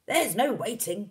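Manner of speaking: high, loud, drawn-out interruption; worked-up cry. A narrator's reading. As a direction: cry it out, working yourself up. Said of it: "working himself up so much".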